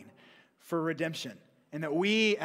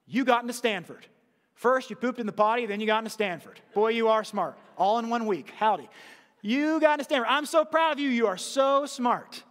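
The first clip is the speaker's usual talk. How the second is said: gushing parent praise; 3 semitones higher than usual. Retold or imitated. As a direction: gush over your smart kid. Parent gushing over child.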